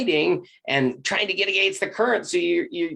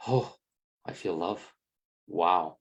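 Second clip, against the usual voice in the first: awed hush; 8 semitones lower, 7 dB quieter, slower than usual. Retold or imitated. Awed inner realization quote.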